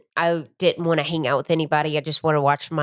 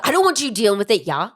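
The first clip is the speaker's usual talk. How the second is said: mock loud; 2 semitones higher, faster than usual. Teasing the speaker for saying it so loud, mock loud. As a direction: mimic the overly loud delivery, slightly hammed-up. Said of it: "You said it so loud".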